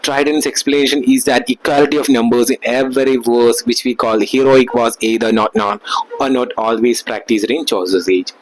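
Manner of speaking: reading each word out very slowly, like dictation; slow textbook reading. Acted. Teacher dictating notes to students, very slowly. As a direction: read the notes out for the class to copy. Reads English text aloud slowly.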